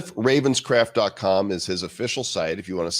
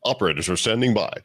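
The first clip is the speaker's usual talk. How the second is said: announcer voice; faster than usual. Pretend. Infomercial catchphrase joke.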